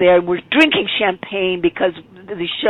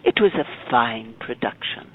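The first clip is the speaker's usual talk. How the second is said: formal father; 3 dB quieter than usual. Retold or imitated. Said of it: "in a very formal way".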